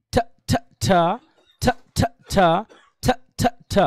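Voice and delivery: ঠ, ঠ, ঠ in short aspirated bursts; demonstrating ঠ. Shown as a demonstration. Teacher drills the class for self-practice, demonstrating aspirated ঠ. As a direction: drill ঠ in threes, puffed, last one voiced. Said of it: "সবাই আমার সাথে self practice করেন".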